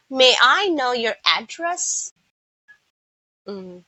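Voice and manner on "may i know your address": "address" as a noun in a question, first syllable stressed. Shown as a demonstration. Teacher using the noun in a sentence, first-syllable stress on "address". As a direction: ask it with AD-dress for "address". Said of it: "that's a noun".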